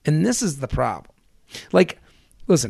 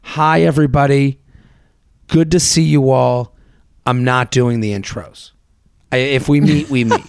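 mock loud announcement; 4 dB louder than usual. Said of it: "I go".

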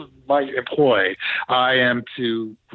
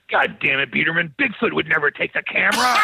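imitated indignant disbelief, understated; mock disbelief. Gary answering the Bigfoot suggestion, in imitated disbelief. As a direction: play his incredulous scolding, building slightly to the end. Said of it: "like, in disbelief and says".

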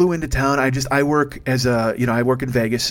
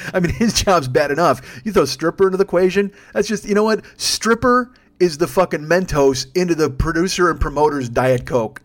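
riffing in raised-pitch disbelief; incredulous rant; 5 semitones higher, 3 dB louder than usual. Real, not acted. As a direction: build a disbelieving rant, hitting each absurdity. Incredulous comic rant about the rider.

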